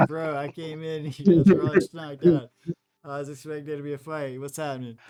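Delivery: Bello voice. Acted. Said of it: "Bello's like".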